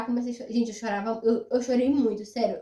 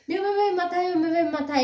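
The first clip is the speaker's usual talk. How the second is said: mock panic; 4 semitones higher than usual. Panicking about her mother.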